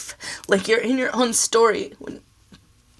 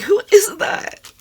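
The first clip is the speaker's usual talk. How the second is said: mom's question; 11 semitones higher, 5 dB louder than usual. Retold or imitated. Retells mom asking about the song.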